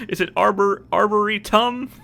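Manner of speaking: arboretum with the last syllable TUM punched; stress on TUM. Shown as a demonstration. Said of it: "Is it tum?".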